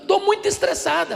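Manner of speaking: put-on high, whiny child's complaint; stressed little girl. Girl tells pastor she's stressed.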